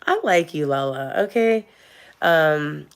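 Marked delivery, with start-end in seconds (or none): 0.1-1.7 playful outburst. Real, not acted. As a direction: pop up to tease the commenter. Reacting playfully to a commenter.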